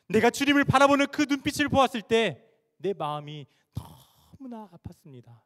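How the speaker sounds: anguished confession swelling from hushed to loud; acted wailing lament. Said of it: "통곡하며 울어요". (통곡하듯 절규하는 고백)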